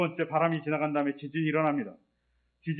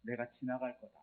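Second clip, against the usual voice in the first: much softer and lower, hushed; quiet divine voice; 5 semitones lower, 13 dB quieter than usual. Retold or imitated. God answering the arguing Elijah, soft and low. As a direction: speak it low and still like God.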